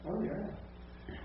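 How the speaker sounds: high-pitched mock recognition; hearers catching on. Teacher voices Greek listeners picking it up, pleased recognition. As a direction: act out a listener suddenly getting it. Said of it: "the hearers would pick this stuff up".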